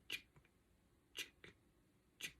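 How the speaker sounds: short spaced-out footstep clicks; imitated footsteps. Walker imitates the steps following along the trail, spaced clicks. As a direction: mimic footsteps with soft, separate "chick" sounds.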